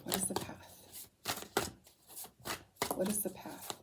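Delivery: soft, half-to-oneself murmur; quiet questioning. Real, not acted. Reader asking the path of the cards, quiet questioning. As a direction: ask it softly, as if to the cards.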